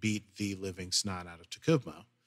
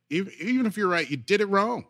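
stern captain, higher; 10 semitones higher, 6 dB louder than usual. Retold or imitated.

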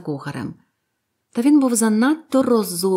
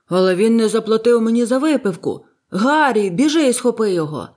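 loud, indignant, higher at "Гаррі"; angry order; 3 semitones higher, 5 dB louder than usual. A narrator's reading. Silver sends Harry after the man, angry and loud. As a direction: bark the order after the runaway.

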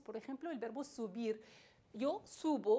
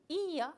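Ia with a long, stressed i; 4 semitones higher, 4 dB louder than usual. Shown as a demonstration. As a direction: lean on the i in Ia. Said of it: "acento sobre i".

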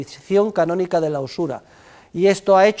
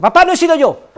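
put-on child voice; 10 semitones higher, 8 dB louder than usual.

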